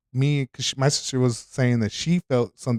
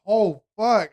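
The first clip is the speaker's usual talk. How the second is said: a touch higher, startled curse; imitating the nurse catching her mistake; nurse's alarm; 8 semitones higher than usual. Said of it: "She goes".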